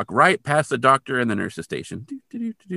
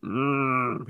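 imitated mummy groan; 4 dB quieter than usual. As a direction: groan a soft mummy "mmm". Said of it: "He just kinda went".

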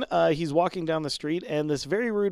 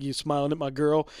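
put-on Southern accent. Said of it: "don't know why I made him Southern".

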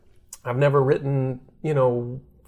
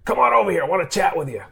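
put-on much higher old scout voice, beckoning; old scout's voice; 6 semitones higher, faster than usual. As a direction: wave him over like an old scout who wants a word. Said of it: "His name was Julian Mock".

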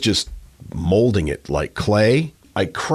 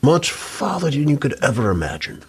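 ghostly voice; 6 semitones higher than usual. Pretend. Playing the risen prankster.

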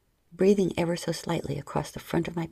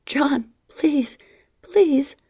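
begging; 8 semitones higher, 7 dB louder, much slower than usual. Acted. Kay begging John.

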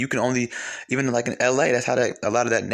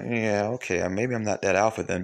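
low, subdued mock concession; unconvinced concession; 4 semitones lower, 3 dB quieter than usual. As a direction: retell a doubtful, underwhelmed reaction. Acting out doubtful reaction to videos.

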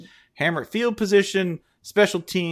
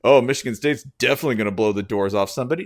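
sarcastic; 4 dB louder, faster than usual. Pretend. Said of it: "since when have I ever gone".

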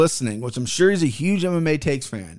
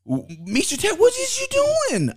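disbelief. Real, not acted. Baffled by fighter's performance.

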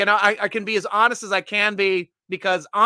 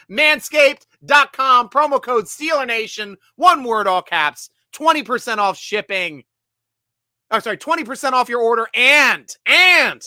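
promo details hit hard; punchy ad read; 4 semitones higher, 5 dB louder than usual. Acted. Host giving viewers the promo code, punchy ad read. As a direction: drive home each part of the offer.

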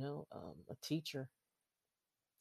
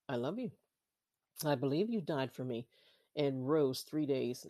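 measured, earnest prayer read for listeners to repeat; sinner's prayer. Acted. Leading listeners through the salvation prayer, earnest and unhurried.

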